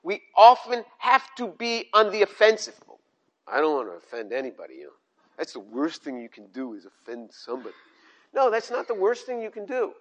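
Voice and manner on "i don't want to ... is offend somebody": low, soft, mocking take on the timid excuse. Preacher mocks the believer afraid of offending anybody, low and soft. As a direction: sneer at the fear of offending, quietly.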